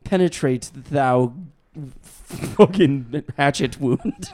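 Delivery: slow, pompous faux-Shakespearean ask; drawn out like a courtly gentleman; mock archaic seducer. Joking crude pickup line in mock old English.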